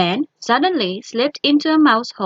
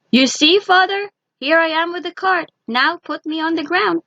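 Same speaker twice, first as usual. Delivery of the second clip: higher, quick and proud; proud cry; 7 semitones higher than usual. A narrator's reading. Tiny son proudly showing father the cart, high and fast. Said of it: "he cried".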